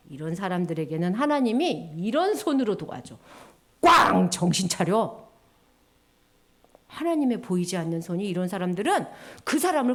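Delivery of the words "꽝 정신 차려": mock bang and wake-up call. God's fist voiced, wake-up call.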